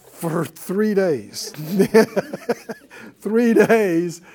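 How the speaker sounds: laughing through the words, stretched out slow. Real, not acted. Preacher laughing to his class about the three-day revival, slow and laughing. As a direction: chuckle as you say it.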